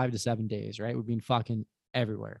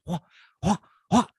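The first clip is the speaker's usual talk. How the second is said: short, higher-pitched mouthed thumps; imitated slamming noise; 6 semitones higher than usual. Storyteller mimicking her slamming against him, punchy sound effect. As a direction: punch out each mock impact separately.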